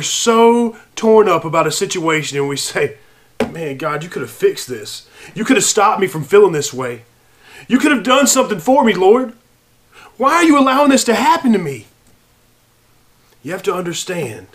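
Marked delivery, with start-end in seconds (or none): 3.5-11.9 a hurt believer asking God why, building to a cry; pleading complaint to God. Retold or imitated. Believer questioning God in prayer, building from hushed to pleading.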